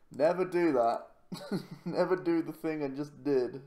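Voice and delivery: loud, high, laughing self-scolding warning; emphatic warning. Real, not acted. Player warning viewers after his own misplay, loud and emphatic. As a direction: hammer home the lesson to the audience.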